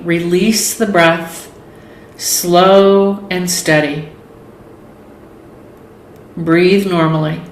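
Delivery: guided meditation. Acted. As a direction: lead them calmly through each breath, leaving space between phrases. Leads a yoga nidra relaxation.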